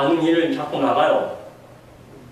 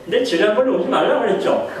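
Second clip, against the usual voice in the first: higher, half-laughing mock irritation at the envoys; annoyed brush-off; 9 semitones higher than usual. Pastor voicing the crowd's reply to unwanted envoys, higher mock annoyance. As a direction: shoo them away like a fed-up host. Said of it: "이렇게 얘기했을 거예요".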